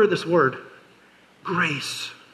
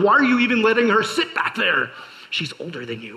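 put-on whiny kid complaint; 3 semitones higher than usual.

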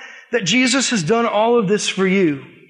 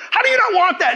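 high-pitched mock disbelief; incredulous; 12 semitones higher, 4 dB louder than usual. Evangelist hearing the lady turn him down, incredulous. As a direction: squeal it, utterly baffled. Retold disbelief at her refusal.

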